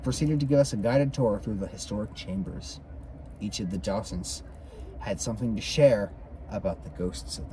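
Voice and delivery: measured, lilting read-aloud; story narration. A narrator's reading. Reader tells of the Hale house tour, story narration. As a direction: narrate the ghost tour from the book.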